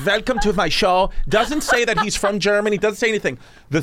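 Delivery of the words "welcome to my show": higher-pitched mock German accent. Comedian greets the crowd, mock German accent. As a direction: imitate a comic's full German accent. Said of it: "full German accent".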